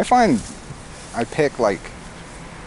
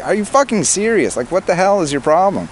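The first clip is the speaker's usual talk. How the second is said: higher-pitched exasperation, not a full yell; retold yelling; 6 semitones higher than usual. Man retelling how he yelled at a girlfriend, exasperated. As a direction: act out fed-up scolding. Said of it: "yelled at her a bunch".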